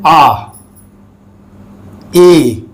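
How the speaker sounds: very slow, stretched आ; drawn-out vowel. Shown as a demonstration. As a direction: hold the vowel आ long. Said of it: "इसमें वावेल का pronunciation".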